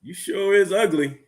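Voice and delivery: high, drawn-out parrot insult. Acted. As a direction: drawl it like a sassy parrot.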